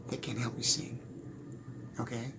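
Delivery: breathy unvoiced whisper. Real, not acted. Whispered aside to viewers about singing.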